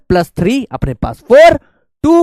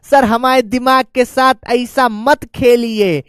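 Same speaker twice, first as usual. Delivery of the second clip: mildly protesting student, a bit slower; imitating a student; 2 semitones higher, slower than usual. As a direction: play a student lightly complaining to sir. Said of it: "तो बेटा बहुत अच्छी बात है". (छात्र की हल्की शिकायत की नकल)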